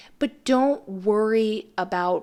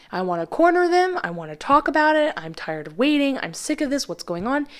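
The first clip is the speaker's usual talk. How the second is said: frustrated venting; 5 semitones higher than usual. Retold or imitated. Tarot reader voicing an impatient client's frustration, mildly mock frustrated. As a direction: vent like you're fed up with waiting. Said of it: "a desire on your end to be like".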